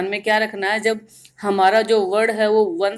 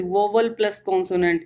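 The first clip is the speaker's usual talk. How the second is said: slow emphasis; much slower than usual. Shown as a demonstration. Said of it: "ending with".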